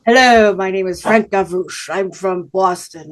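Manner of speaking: a hint of posh Back Bay Boston accent; mild imitation of a Boston announcer accent. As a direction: lightly mimic a Boston TV host's accent. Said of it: "he'd have this Boston accent".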